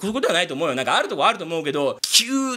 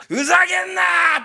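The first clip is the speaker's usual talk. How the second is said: mock outburst; 10 semitones higher, 5 dB louder than usual. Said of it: "ふざけんなーって言って".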